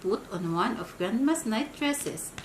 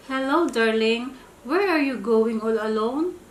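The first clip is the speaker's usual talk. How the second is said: sly wolf; 5 dB louder than usual. Acted. Wolf greets girl sweetly.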